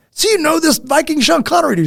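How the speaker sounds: excited high mock question; mock amazed question. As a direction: ham up the astonished ask. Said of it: "I'm like".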